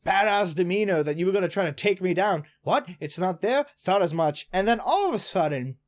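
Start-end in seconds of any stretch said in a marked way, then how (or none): 0.0-4.5 mildly mocking taunt; trash-talking. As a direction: imitate a cocky rival's taunts. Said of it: "Ryo is shit-talking him".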